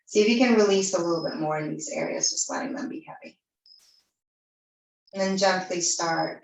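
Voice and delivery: calm yoga-teacher voice with long pauses between phrases; guided meditation. Real, not acted. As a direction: guide them gently into the breath, unhurried.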